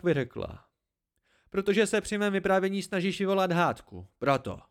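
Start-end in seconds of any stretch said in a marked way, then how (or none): 1.5-4.6 higher-pitched, seething retort. A narrator's reading. Hespe accusing Dedan of stirring up a quarrel, seething. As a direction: let the pent-up annoyance out. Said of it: "Hespe chvilku tiše pěnila, pak vyřkla".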